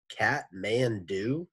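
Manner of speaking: put-on slow, drawn-out creaky kid voice; rusty drain pipe voice. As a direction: draw the word out like a rusty pipe. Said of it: "Terrence's voice was like a rusty drain pipe".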